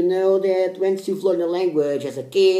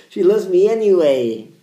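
laughing; 3 semitones higher, 9 dB louder than usual. Real, not acted. Laughing after wife answers.

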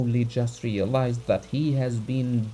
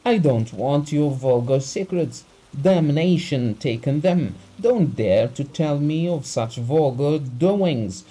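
raised furious voice; angry shouting; 4 semitones higher, 4 dB louder than usual. Acted. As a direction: shout him down in rage. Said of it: "he shouted".

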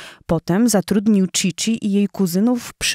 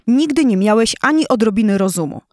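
higher and louder scolding roar; furious lioness roar; 3 semitones higher, 4 dB louder than usual. Acted. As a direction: tear into her foolish husband. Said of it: "zaryczała strasznym głosem".

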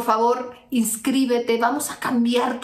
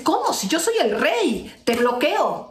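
mock angry; 5 semitones higher than usual. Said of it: "se enoja y dice".

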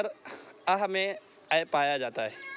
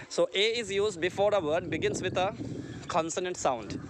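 slow dictation; 2 semitones higher, much slower than usual. Shown as a demonstration. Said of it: "teacher dictating the rule".

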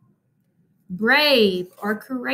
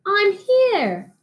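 mama's call; 10 semitones higher than usual. Acted. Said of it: "cried Big Mama Mummy".

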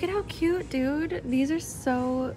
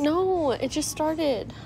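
hiccups; 3 semitones higher, slower than usual. Real, not acted. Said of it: "I got the hiccups".

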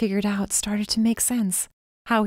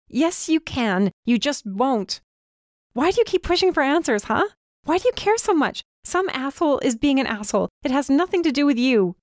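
heated shouting; 7 semitones higher than usual. A narrator's reading. Heated quarrel, still shouting.

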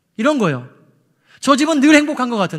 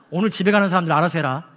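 mock warning text; 2 semitones lower, faster than usual. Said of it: "뭐 이런 거죠".

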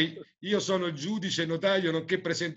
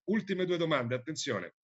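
showy game show host; slower than usual. Acted. Quiz host reading question.

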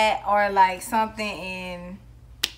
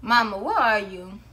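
medium take. Shown as a demonstration. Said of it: "Is that your medium?".

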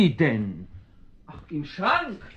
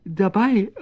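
startled echo; 8 semitones higher, 4 dB louder than usual. Acted. Startled man echoes the cat.

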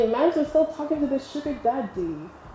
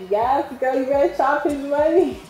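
higher-pitched mock cheering on; hyped best friend; 6 semitones higher, 4 dB louder than usual. Best friend urging her on about the rich date, hyped imitation. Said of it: "and he was like".

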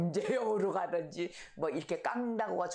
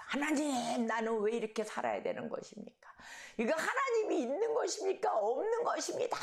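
desperate shout to God; 6 semitones higher than usual. Retold or imitated. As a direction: hurl the questions up to God, rising. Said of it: "막 소리를 질른답니다".

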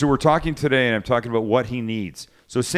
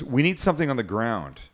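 lightly imitated New Zealand accent; attempted Kiwi accent. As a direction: quote him in a rough Kiwi accent. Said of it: "I can't do the Kiwi accent".

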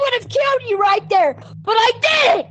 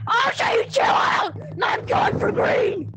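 angry. Real, not acted. Angry player threatens after insult.

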